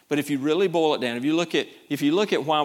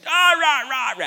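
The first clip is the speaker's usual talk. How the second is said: mock fuming grumble; 11 semitones higher, 6 dB louder, slower than usual. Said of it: "he's just fuming up there".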